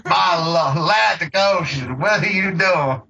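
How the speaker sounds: lightly voiced Blanche-like Southern lady; hammed-up Southern accent. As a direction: imitate a bad Southern belle accent, lightly. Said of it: "put on this fucking, like, horrible Southern accent".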